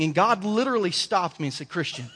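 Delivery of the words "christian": low, soft, slow voice of God; a hint of Morgan Freeman, deep and calm; lightly done Morgan Freeman as God. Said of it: "in the Morgan Freeman voice".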